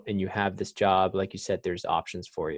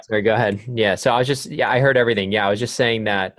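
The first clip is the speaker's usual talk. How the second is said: louder, raising voice to be heard; speaking up; 6 dB louder than usual. Real, not acted. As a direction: speak up over a bad line. Repeating after connection dropped.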